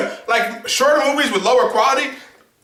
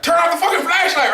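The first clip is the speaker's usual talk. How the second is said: mock audience shout; 8 semitones higher than usual. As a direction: bark it like a fed-up moviegoer. Audience yelling at character.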